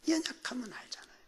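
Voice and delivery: whispered aside to the congregation; hushed repeat. Real, not acted. Preacher repeating the point to congregation, whispered. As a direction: drop to a quick, confiding whisper.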